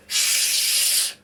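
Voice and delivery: sharp unvoiced shush. A narrator's reading. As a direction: hush the crying baby. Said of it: "says Burglar Betty".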